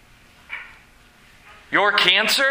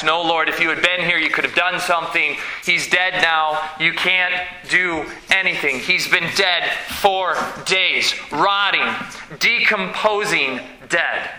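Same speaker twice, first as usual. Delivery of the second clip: fast, lower, exasperated protest; objecting; 6 semitones lower than usual. Acted. Martha protesting to Jesus, fast and exasperated. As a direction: rattle off her objection impatiently. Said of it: "Martha immediately objects".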